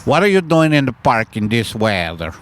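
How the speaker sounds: loose attempt at a French accent; badly faked French accent; botched French accent. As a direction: ask it in a not-really-French accent. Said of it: "That isn't really French".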